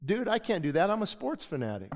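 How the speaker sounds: mock indignant sports fan; incredulous protest. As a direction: act shocked at the suggestion. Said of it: "He goes".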